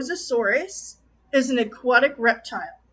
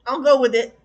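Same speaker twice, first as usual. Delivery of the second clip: louder, half-exasperated giving in; grudging resignation; 6 dB louder than usual. Retold or imitated. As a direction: shrug it off and go along, annoyed. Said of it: "I'm like".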